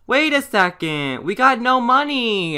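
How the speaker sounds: sudden high, loud alarm; alarmed outburst. Real, not acted. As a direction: jump up in pitch, caught off guard. Sims lose money.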